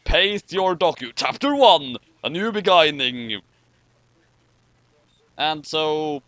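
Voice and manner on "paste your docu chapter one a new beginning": louder, dramatic chapter title announcement; epic title read. Shown as a demonstration. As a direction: redo it in the epic trailer voice. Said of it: "the way I said that earlier".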